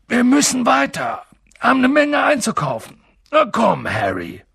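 loud, high, hurried call over a crowd; making himself heard. A narrator's reading. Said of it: "in der allgemeinen Aufregung Gehör verschaffen".

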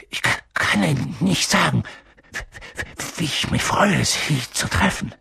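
halting, stuttering greeting; nervous stammer. A narrator's reading. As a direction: stumble over first sounds, struggling onward. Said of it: "stammelte Professor Quirrell".

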